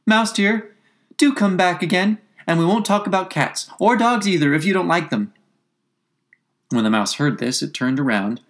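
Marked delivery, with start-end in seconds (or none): 0.0-5.3 high, coaxing Alice voice; soft coaxing call. A narrator's reading. Alice calls the mouse back, coaxing. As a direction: coax it back in a lifted, sweet call. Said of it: "she called softly after it".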